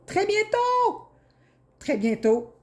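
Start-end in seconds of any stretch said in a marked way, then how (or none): 0.1-1.1 high, slow, drawn-out teasing call; drawn-out sing-song teaser, pitched way up; singsong tease. Acted. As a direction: sing it out high like a playful promise. Tarot reader teasing a prediction.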